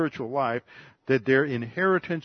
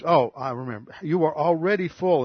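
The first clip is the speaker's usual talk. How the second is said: mock-impressed sarcasm, rising higher on full; sarcastic; 3 semitones higher, 4 dB louder than usual. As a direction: tease them with biting sarcasm. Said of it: "trying to shame them, uh, by his tone".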